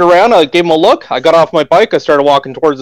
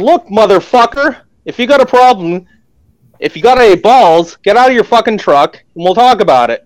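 retold angry outburst; 5 semitones higher than usual. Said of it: "I started flipping out on him".

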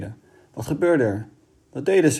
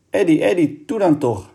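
sobbing; 6 semitones higher, 3 dB louder than usual. A narrator's reading. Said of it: "snikte Kitty".

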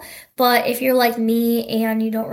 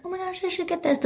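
excited gasp; 7 semitones higher, 7 dB quieter, faster than usual. Retold or imitated. Quoting her excited thought.

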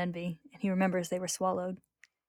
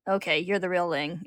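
annoyed. Acted. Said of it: "Ed allows, annoyed".

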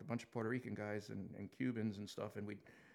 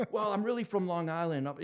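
higher, louder, laughing through the admission; laughing confession; 7 semitones higher, 8 dB louder than usual. Retold or imitated. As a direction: give up the act with a laugh.

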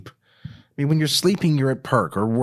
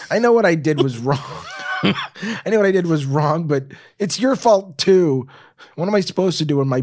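upset pleading; 4 semitones higher, 4 dB louder than usual. Acted. Kristen defending herself tearfully.

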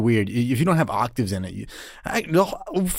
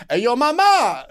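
mock yelled catcall; 9 semitones higher, slower than usual. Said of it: "they're yelling that".

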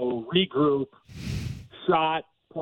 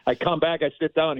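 ordinary delivery

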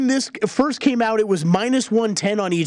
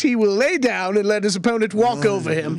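put-on old-timey voice. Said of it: "Old-timey voice".

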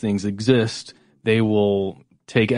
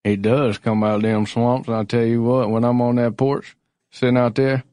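southern drawl. Pretend. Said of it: "this accent right here".

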